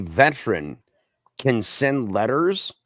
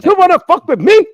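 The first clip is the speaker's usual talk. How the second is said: even higher, faster, louder mock Hispanic yell; Hispanic accent; 9 dB louder, faster than usual. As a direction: push the Hispanic accent harder and quicker. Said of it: "his accent".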